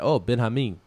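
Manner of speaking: imitating a Cuban accent on "Ben Hameen"; light mock Cuban accent. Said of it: "but with his accent".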